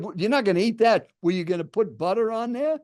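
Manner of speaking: mildly aggressive quoted questioning. Retold or imitated. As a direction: imitate a pushy stranger challenging someone. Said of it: "kind of an aggressive tone".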